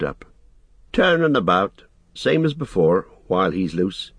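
lightly voiced rustic hobbit; Sam, wary. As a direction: warn a friend with homely distrust.

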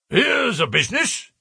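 high, husky blustering outburst; high-pitched muffled bluster; muffled, husky cry. A narrator's reading. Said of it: "cried in a muffled, husky voice".

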